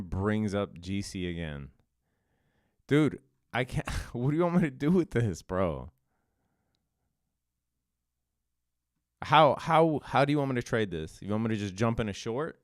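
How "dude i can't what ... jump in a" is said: louder, higher, fast and laughing in disbelief; exasperated disbelief. Real, not acted. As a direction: throw up your hands at chat, half laughing. Chat keeps asking absurd questions.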